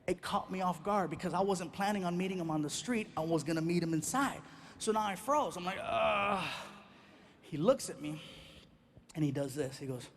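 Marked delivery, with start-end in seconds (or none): 5.8-6.4 long, drawn-out "ugh"; startled groan. Retold or imitated. Comic telling of freezing on seeing dad, startled groan.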